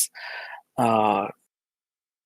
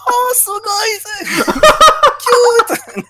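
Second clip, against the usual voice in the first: high squealing delight with laughter; gushing; 7 dB louder, much slower than usual. Retold or imitated. Japanese listeners gushing, retold.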